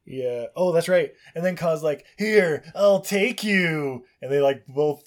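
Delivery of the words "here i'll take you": Kaa. Acted. Kaa offers a ride.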